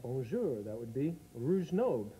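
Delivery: a light French accent on "rouge nobe", slowly; hint of French on the reversed bonjour; mock French accent. Shown as a demonstration. Backwards bonjour with a hint of French accent. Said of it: "Have to add the accent".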